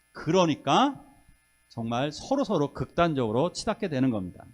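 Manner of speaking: usual speaking voice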